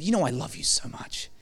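soft loving whisper in the ear. Retold or imitated. Father holding his son, softly whispering love. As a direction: hush it close and tender. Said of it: "I whispered into his ear".

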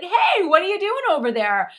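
high, loud call across the water. Retold or imitated. Husband calls back to wife stuck behind him, calling out. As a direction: imitate a husband hollering from afar.

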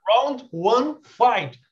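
hammed-up arcade announcer callout; fighting game announcer. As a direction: call the round like a fighting game. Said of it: "o meu inglês era de videogame".

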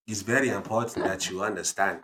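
put-on grave African-accented elder. Dad impresses quote's importance, African accent. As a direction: state it solemnly in an African accent. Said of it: "African accent".

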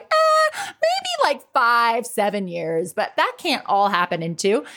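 skeptical doubt. Retold or imitated. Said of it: "I would have been like".

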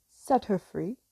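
loud pirate captain's command; Captain Hook imitation. A narrator's reading. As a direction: call out an order like a pirate captain. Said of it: "he sounded just like Captain Hook".

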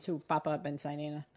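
talking with a mouth full; words round a bite of food. Real, not acted. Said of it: "I'm eating right now".

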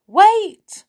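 sharp high shout to stop him; cry out. Acted. Pixie stops the goblin mopping with the map, loud cry. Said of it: "Binky gave a cry".

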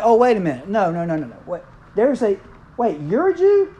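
lightly acted king's double take; shocked king. Preacher voicing the king learning Esther is a Jew, mock shock. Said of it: "he's like".

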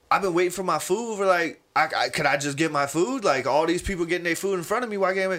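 mildly exasperated, hurried complaint; a little frustrated. Retold or imitated. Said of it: "he's already a little f-, frustrated".

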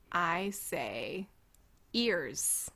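put-on English accent, ears for yes. Mimicking the actor, English accent ears. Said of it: "you say ears in an English accent".

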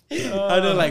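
high, loud laughter breaking up the words; real laughter. Real, not acted. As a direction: crack up mid-sentence. Host cracking up at story.

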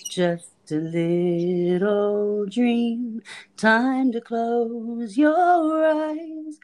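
very slow soothing coo; lullaby voice. Real, not acted. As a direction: lull a pet to sleep slowly. Lulling the bird to sleep.

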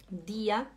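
dir spoken as "dia". Shown as a demonstration. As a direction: finish "Dia" on an a sound. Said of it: "Imagina que tem um A".

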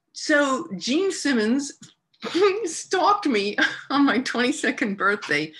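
high, slow, laughing reveal; high laughing disbelief at her own story. Real, not acted. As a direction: laugh through the punchline. Laughing at the punchline.

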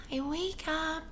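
dreamy soft-spoken ASMR murmur. Pretend. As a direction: lull them with a soothing ASMR tone. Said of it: "as I use my soft A S M R voice".

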